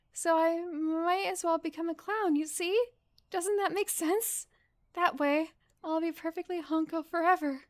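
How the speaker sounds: high, slow silly clown voice. Acted. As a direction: drawl it out like a sad clown. Streamer voices the clown character.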